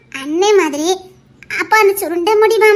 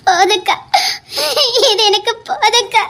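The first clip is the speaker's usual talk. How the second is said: grateful words through sobs; overcome, weeping; tearful. Acted. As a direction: choke out the words while crying. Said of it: "வேற ஏன் அழுத".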